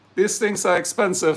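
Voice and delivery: normal talking voice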